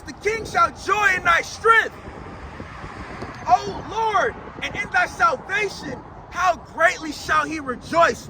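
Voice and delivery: emphatic psalm proclamation; preaching scripture reading. Acted. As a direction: declaim the verse with punched key words.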